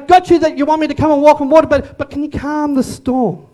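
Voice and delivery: high-pitched attempt to get attention; urgent pleading. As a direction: plead and bargain, as an imagined Peter. Acts Peter pleading with Jesus.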